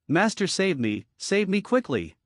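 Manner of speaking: urgent, weak serpent's plea, slowing down; a dying snake begging for help. Acted. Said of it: "A serpentine voice called out to Samael urgently, and his voice was full of weakness".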